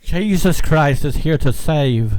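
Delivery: slow, hammed-up Australian accent. Shown as a demonstration. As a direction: attempt a drawn-out Australian accent. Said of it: "Give me an Australian accent".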